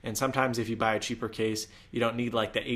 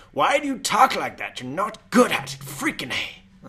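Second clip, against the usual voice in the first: mocking critic; 9 semitones higher, 6 dB louder than usual. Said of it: "people are like".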